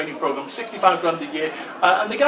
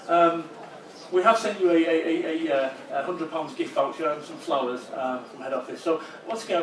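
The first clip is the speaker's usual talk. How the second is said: lightly voiced director. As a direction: brush him off casually. Director cancels send-off.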